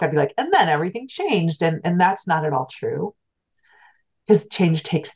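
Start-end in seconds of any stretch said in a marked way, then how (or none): 0.4-1.6 book narrator voice. Retold or imitated. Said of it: "if I were writing a book".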